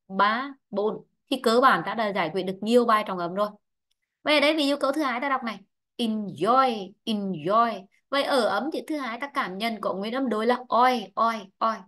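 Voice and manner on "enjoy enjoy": "Enjoy" with stress on the second syllable; stress on JOY. Shown as a demonstration. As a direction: lean on the "oy" in "Enjoy". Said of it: "Vậy trọng ấm rơi vào nó".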